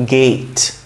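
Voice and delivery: গেট said as English "gate"; English pronunciation. Shown as a demonstration. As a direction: model গেট clearly with the ei glide. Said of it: "কিন্তু ইংলিশে গেট".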